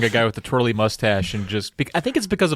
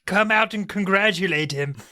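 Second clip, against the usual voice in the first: shouting out; 9 semitones higher than usual. Acted. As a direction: call to the woods. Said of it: "he shouts out into the woods".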